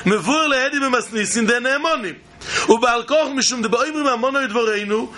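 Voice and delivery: rapid Hebrew text chant; fast gemara reading. Acted. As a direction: rattle off the text quickly.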